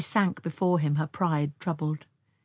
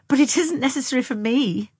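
high, raised-voice dismissal; slightly contemptuous; 8 semitones higher, 6 dB louder than usual. A narrator's reading. Young woman refusing Tom's view, slight contempt. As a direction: brush him off with slight scorn. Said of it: "with slight contempt".

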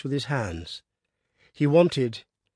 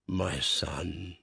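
low, soft grief-stricken groan; 6 semitones lower, 6 dB quieter than usual. A narrator's reading. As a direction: let it sink out in grief. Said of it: "groaned the boss".

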